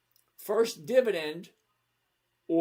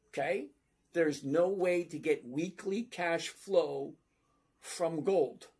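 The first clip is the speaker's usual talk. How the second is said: deliberately slow. Real, not acted. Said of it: "I'm gonna say this very slowly".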